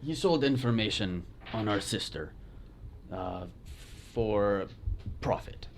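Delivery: put-on Spanish accent. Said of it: "is a bad Spanish accent".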